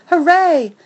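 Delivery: high, loud cheer; overjoyed dog cheering; excited cheer. A narrator's reading. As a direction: shout for joy. Dog thrilled at dog park.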